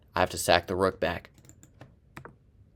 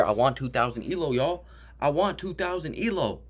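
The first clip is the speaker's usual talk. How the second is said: mock boastful voice; 6 semitones higher than usual. Boasting in a funny voice.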